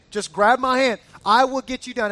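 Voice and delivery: insistent, emphatic promise; firm urging. Retold or imitated. Husband to wife stuck on the mountain, firm. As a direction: push with confident resolve.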